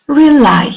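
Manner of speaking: "Rely" with LY high, then falling; light first syllable, strong LY in "Rely"; stress on second syllable. Shown as a demonstration. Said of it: "The stress is on the second syllable".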